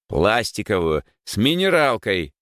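impatient bark, rising in pitch; barked order. Acted. Rower answers the confused boy, barking. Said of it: "рявкнул Егор".

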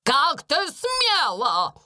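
медленно, с нажимом на смела; отчеканить с гневом; гневный окрик. A narrator's reading. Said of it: "крикнула она". (Минчин находит Бекки, окрик)

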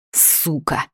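ordinary delivery, nothing marked

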